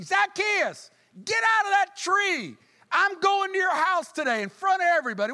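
very high, loud call up a tree. Acted. Jesus calling Zacchaeus out before the crowd. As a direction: shout him down from the tree.

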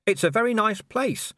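a limp, half-hearted compliment; weakly. A narrator's reading. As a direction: say it weakly while looking around. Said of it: "said Vimes weakly".

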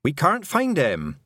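high, worried mother, words drawn out slowly; mother's restrained panic; panicking. A narrator's reading. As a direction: let panic lift the pitch, slow and distressed. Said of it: "panic pouring off her mother".

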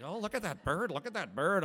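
high, gushing about a bird; excited bird watcher; delighted. Retold or imitated. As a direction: point it out with childlike glee. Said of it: "I'm like".

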